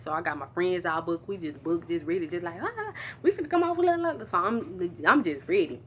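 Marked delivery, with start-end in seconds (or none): 2.6-4.2 hyped up. Retold or imitated. Hyped quote of getting ready.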